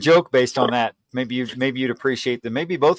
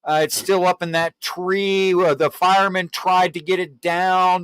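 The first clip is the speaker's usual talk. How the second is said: gentle breaking of news; 5 semitones higher, slower than usual. Shown as a demonstration. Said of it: "Next time I call and say".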